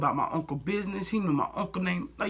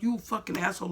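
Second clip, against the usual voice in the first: a touch higher, less stretched insult; milder contempt; 4 semitones higher than usual. Retold or imitated. Repeating the thought about the manager, milder disgust. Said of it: "that's what I'm thinking in my head".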